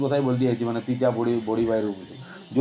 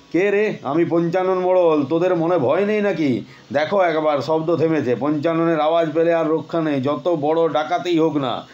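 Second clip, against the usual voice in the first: blustering shout; 2 semitones higher than usual. Acted. Headman calls out to supposed robbers, blustering. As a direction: bluster at the intruders.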